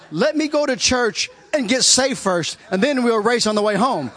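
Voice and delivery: half-shouted through laughter; loud laughing plea. Real, not acted.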